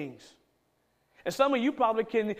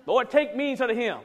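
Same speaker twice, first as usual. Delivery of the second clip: laughing mock plea; 4 semitones higher, 4 dB louder than usual. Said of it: "the one gotta pay those bills".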